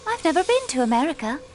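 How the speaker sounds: put-on quick denial with an American accent; a hint of an American accent on a fast denial. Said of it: "you say it with an American accent".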